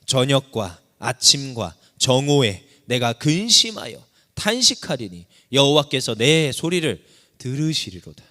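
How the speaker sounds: a preacher's emphatic recitation; solemn scripture reading. Acted. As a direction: lean on every phrase of the psalm. Preacher reads the verse with emphasis.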